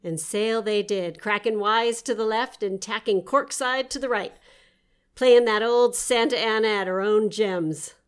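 playful storybook read; story narration. Acted. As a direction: read it like a tall sea tale. Reads her nonsense story aloud.

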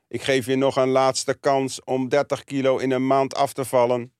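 slow, monotone robot voice; slow robotic doctor imitation. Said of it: "Die praat als een robot".

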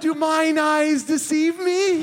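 mock archaic wonder, laughing; old-fashioned grand voice. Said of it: "she was like".

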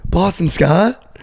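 slow, drawn-out puzzled "Boston Scott?"; incredulous question. Retold or imitated. Wishing he had asked the kid back, drawn-out puzzled question. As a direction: stretch it out in disbelief. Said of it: "didn't even get to be like".

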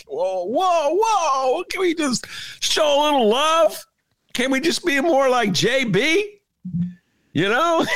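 high put-on old-man voice, pleading; hammed-up boomer begging for love; outraged boomer. Mocking liberal boomers to the co-host, high put-on voice. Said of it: "That's my imitation of an outraged boomer".

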